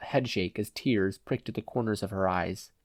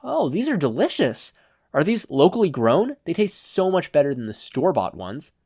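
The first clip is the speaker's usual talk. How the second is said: higher, overdone delight; mock savoring; 5 semitones higher, 4 dB louder than usual. Izuku pretends to enjoy peppers to mock thugs. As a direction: fake relish the taste to annoy them. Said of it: "pretending to savor the taste".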